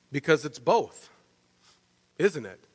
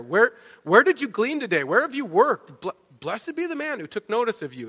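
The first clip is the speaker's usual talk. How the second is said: higher, stumbling burst of excited questions; stuttering excitement; 4 semitones higher than usual. Acted. Naomi in shock questioning Ruth about her gleaning, stuttering with excitement. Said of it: "like this stuttering of excitement".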